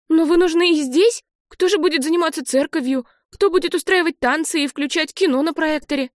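put-on girl objecting to her aunt and uncle leaving; upset older sister. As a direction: plead with the grown-ups. Nell protesting leaving.

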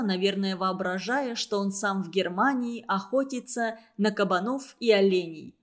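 plain reading voice

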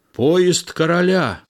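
high, ringing announcement; announcing cry. A narrator's reading. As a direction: call out momentous news. The coachman's cry is relayed.

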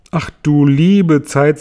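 höher, lauter und gedehnt; belustigter Ausruf. Acted. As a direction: lachend gedehnt, als wäre es absurd. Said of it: "sagten sie alle". (gedehnt belustigter Ausruf)

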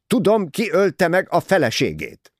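high, loud grand proclamation; dramatic. A narrator's reading. Mrs Otterborn announces she knows the killer, dramatic and loud. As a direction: reveal it like a stage climax. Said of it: "szólt drámai hangon".

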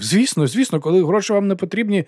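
gleeful babbling; joyful rattle. A narrator's reading. Manager relieved, happily rattling on. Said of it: "Він радісно заторохкотів".

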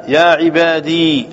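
يا عبادي slowly, with a long "dee" ending; measured quote, يا عبادي ending in held ee; silent ya in recitation. Shown as a demonstration. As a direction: stretch the final ee of يا عبادي. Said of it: "وإسكان".

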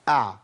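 أع held briefly, neither cut nor dragged; model still ayn. Shown as a demonstration. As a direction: give أع a short measured flow from the throat. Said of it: "لا يخرج عن كده". (أع بمقدار مضبوط، لا يزيد ولا يقل)

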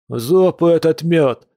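high, drawn-out wail of outrage; howling protest. Acted. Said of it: "взвыл Кир".

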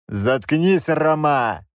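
a short angry bark. Acted. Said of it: "рявкнул я". (резкий рявк)

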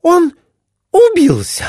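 very high, loud, horrified wife's cry; shrill exclaiming wife. A narrator's reading. Wife sees her husband fall, high horrified cry. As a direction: shriek it like a frightened wife. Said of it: "воскликнула она".

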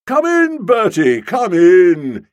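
high, loud, hearty welcome; jovial cry. A narrator's reading. Boko welcoming Bertie in, loud and jovial. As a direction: boom a cheery welcome. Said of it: "he cried jovially".

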